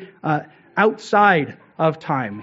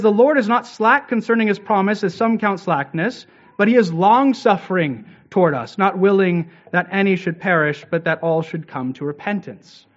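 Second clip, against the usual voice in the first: scripture reading; 2 semitones higher than usual. Acted. Reads Peter's letter aloud.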